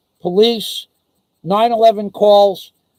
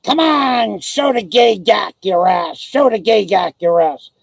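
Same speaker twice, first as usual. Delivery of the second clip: mock yell. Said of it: "a guy yelling out".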